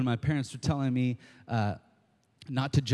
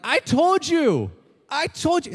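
gloating; 7 dB louder than usual. Retold or imitated. Friend gloating I told you at a dumped buddy. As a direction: rub it in, sing it out. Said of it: "And you're like".

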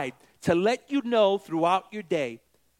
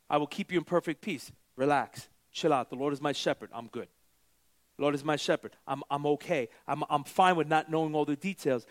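calm reassurance; 3 semitones lower than usual. Acted. Voicing a calm, trusting believer.

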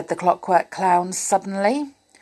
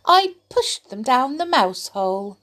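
grinning; 7 semitones higher than usual. Acted.

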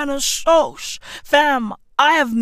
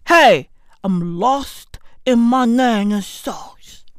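sudden stage whisper. Acted. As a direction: drop to a breathy secret whisper.

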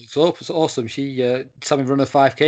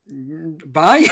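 put-on "bye" in a light Scandinavian accent; a quick Scandinavian-accented goodbye. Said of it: "your attempt at saying bye in a slightly fin-, uh, Scandinavian accent".

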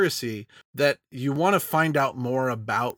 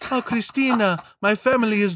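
put-on young, higher teen voice; teenage Ezio voice; 8 semitones higher, 3 dB louder than usual. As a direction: sound like a lovesick teenage boy. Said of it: "teenager voice is coming out".

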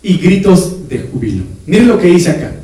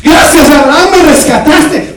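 Lot agradecido; 8 semitones higher, 5 dB louder, slower than usual. Acted. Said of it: "Viene Lot".

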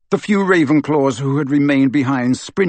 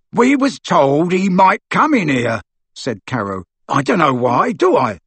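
sulky thug; 4 semitones higher, 3 dB louder than usual. Acted. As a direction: shrug it off sullenly. Amycus voiced in story.

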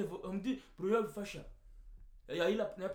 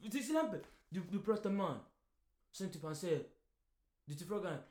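ordinary delivery

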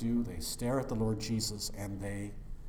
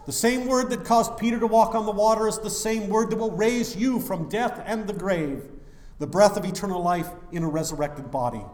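preaching at full force; 7 semitones higher, 8 dB louder than usual. Acted. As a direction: proclaim resurrection with power. Preaching about resurrection.

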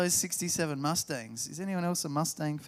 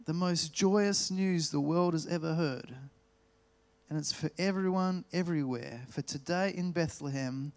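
solemn scripture reading. Acted. Rereads angel's message solemnly.

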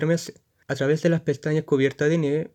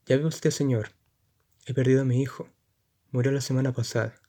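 voz ahogada. Acted. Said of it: "contesta con voz ahogada".

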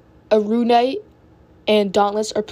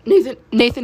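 voice cracking; 2 semitones higher, 3 dB louder than usual. Real, not acted. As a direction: voice breaks while calling out. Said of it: "My apologies for the voice crack on my part".

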